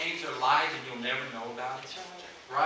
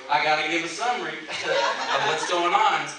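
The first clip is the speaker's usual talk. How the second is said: laughing through words; 2 semitones higher, 8 dB louder than usual. Real, not acted. Laughing while telling it.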